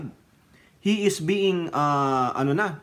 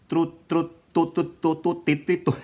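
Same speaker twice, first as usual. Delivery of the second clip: tongue-tied stumbling. Real, not acted. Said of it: "Nabubulol ako eh".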